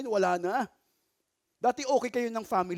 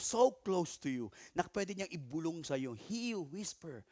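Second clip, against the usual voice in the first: hushed; 5 semitones lower, 8 dB quieter than usual. Shown as a demonstration. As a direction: speak as if leaning close. (mahinang pabulong)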